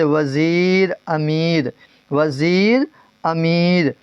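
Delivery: وزیر and امیر with a long "ee"; drawn-out long ee. Shown as a demonstration. Teacher repeats examples for learners, وزیر and امیر with stretched ee. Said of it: "جو یا کھینچ کر پڑھی جائے".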